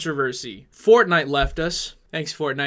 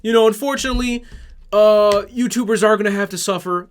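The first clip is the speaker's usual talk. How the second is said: higher, louder mocking whine; mocking Matt; 4 semitones higher, 5 dB louder than usual. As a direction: parody him as smug and uncaring. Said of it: "He's like".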